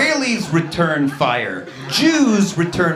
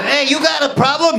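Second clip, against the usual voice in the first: higher, louder, pushy; tough guy challenge; 9 semitones higher, 4 dB louder than usual. Retold or imitated. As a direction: start the argument. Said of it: "New York Italian tough guy".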